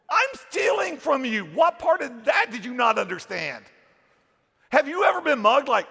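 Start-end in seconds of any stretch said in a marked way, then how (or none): 0.1-3.6 emphatic shout. Real, not acted. Insisting on the bad guy role.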